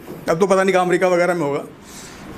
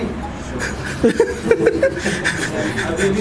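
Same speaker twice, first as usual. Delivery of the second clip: silent wheezing laugh. Real, not acted. Laughing at own bit.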